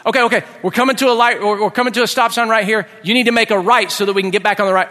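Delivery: acted, rising frustration in rushed directions; getting furious. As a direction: urgently correct Dad, patience running out. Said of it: "they're getting furious".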